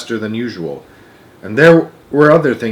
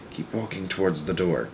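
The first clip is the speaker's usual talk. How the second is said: much softer, low hush; whispered; 6 semitones lower, 13 dB quieter than usual. Acted. Wonka hushing Charlie toward the door, very soft. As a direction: whisper so the grandparents miss it. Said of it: "he whispered".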